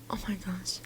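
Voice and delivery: a gasp, then a whispered oh my gosh; stunned whisper; shocked gasp. Real, not acted. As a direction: gasp and breathe the words out in shock. Shocked by the abuse story.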